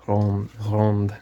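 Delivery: retrying Ronde with a half-rolled French R; trying to roll the R. Shown as a demonstration. Gardener fails to roll the R in Ronde. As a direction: have another go at the R in Ronde. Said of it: "no, I can't do it".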